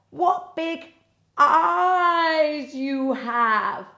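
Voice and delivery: put-on wondering little girl. A narrator's reading. Girl at the bed, very slow wondering. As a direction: stretch it out in wonder. Girl's famous question.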